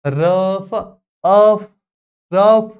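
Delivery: emphatic "ruf, uf, ruf" for रफ, अफ, रफ; pronunciation drill. Shown as a demonstration. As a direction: drill रफ, then just अफ, then रफ, stretching the "uh". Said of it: "तुम्ही जोपर्यंत pronunciation करणार नाही".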